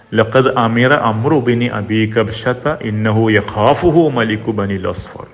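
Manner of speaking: slow measured Arabic intoning; slow recitation. Acted. Preacher reciting Abu Sufyan's words to the audience, slow intoning. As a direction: draw the hadith out like a recitation.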